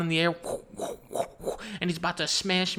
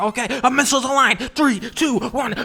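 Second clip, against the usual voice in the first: loud, higher battle callout; firing countdown; 6 semitones higher, 5 dB louder than usual. Acted. Pilot about to fire at the boss, shouted countdown. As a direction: call the countdown like a pilot in combat.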